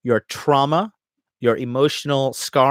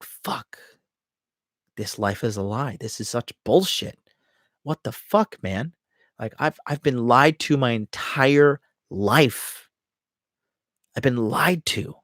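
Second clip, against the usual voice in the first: deflated despair; 2 semitones lower, 3 dB quieter than usual. Retold or imitated. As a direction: let the air go out of him. Acted depression stage inner voice.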